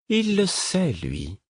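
départ très aigu, chute sur le dernier mot; répondre de haut, voix perchée; dragonne hautaine. A narrator's reading. Dragon's haughty answer. (voix de dragonne, hautaine)

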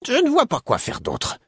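put-on high, apologetic old woman. A narrator's reading. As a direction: excuse yourself to the queen. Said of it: "d'un ton d'excuse".

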